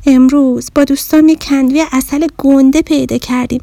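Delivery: little bear telling the mirror she is hungry. Acted. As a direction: complain about missing the honey. Bear explains hunger.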